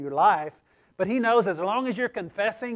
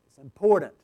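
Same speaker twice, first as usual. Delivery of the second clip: "important" hit loud and lower; emphatic; 4 semitones lower, 5 dB louder, faster than usual. Real, not acted. Preacher urging confession of sins, emphatic stress on "important". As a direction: punch the word "important" firmly. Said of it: "It's emphatic".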